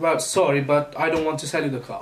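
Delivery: plain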